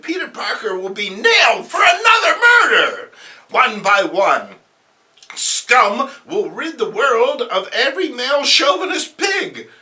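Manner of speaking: scheming voice rising to a loud cackling rant; hammed-up evil plotter; gloating villain. The schemer gloating over her plan, building loud.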